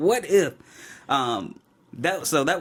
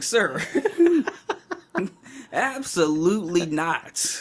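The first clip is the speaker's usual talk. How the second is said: firm refusal; 6 semitones higher, much slower than usual. Retold or imitated. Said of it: "I was like".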